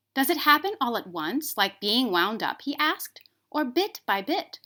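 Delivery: a hint of a small toy rabbit; curious rabbit. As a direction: ask it with childlike curiosity.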